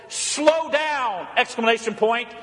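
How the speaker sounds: sharp, high "Slow down!" as a warning; blunt command. Retold or imitated. Wife's text read as a blunt order. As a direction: bark the order like a worried wife. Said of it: "and the text said".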